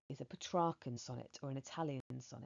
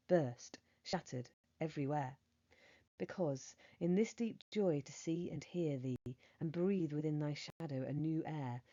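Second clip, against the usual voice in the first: poem recitation; 4 dB louder than usual. Acted. Teacher reading a sonnet to her class, measured poem recitation. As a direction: read the sonnet aloud with feeling.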